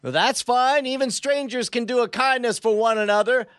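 lightly hammed villain bargaining; supervillain voice. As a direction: sweet-talk like the bad guy in an apocalyptic world. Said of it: "trying to sound like a supervillain".

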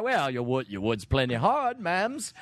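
lightly hammed British workman; a bit of bad British accent; put-on British tradesman patter; fake British accent. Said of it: "my terrible fake accent".

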